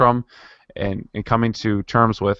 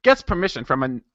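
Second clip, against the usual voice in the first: put-on determined amateur Irish accent, higher in pitch; attempted Irish accent; 5 semitones higher than usual. Podcaster forcing himself to finish the reading, attempted Irish accent. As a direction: push through the line in a rough Irish accent. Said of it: "let me finish this".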